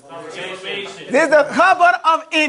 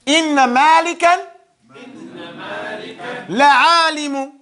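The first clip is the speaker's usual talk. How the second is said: loud recitation. Shown as a demonstration. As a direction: call out the sentence.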